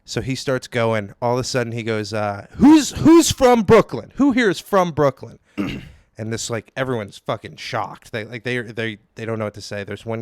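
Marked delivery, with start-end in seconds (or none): 2.5-5.4 comic shouting a question at a silent crowd; mock crowd-work shout. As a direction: drag it out like a pushy MC. Comic quizzing the open mic crowd.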